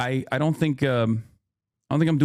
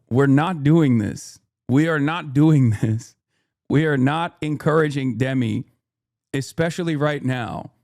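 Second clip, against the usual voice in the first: firm refusal; 3 dB louder than usual. Real, not acted. Firmly shutting down chat.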